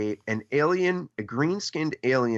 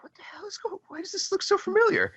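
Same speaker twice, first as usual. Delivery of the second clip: whispering. Retold or imitated. Stunned kid whispering at TV.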